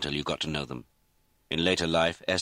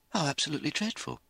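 high, quick, appalled; gasped shock; 11 semitones higher, faster than usual. A narrator's reading. Lizzie hears twenty people were killed, gasped shock. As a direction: take in dreadful news with shock. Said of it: "Lizzie gasped".

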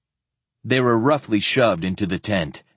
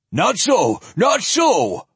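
sharp, much higher, louder cry; half shriek; 12 semitones higher, 4 dB louder, slower than usual. A narrator's reading. Zealot denying the opposition is gone, half shrieking. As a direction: shriek the denial in zealous outrage. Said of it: "Ulsum half shrieked".

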